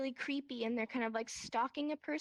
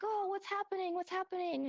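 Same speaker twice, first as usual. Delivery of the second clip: confused panic; 6 semitones higher than usual. Acted. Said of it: "and I'm looking around, and I'm like".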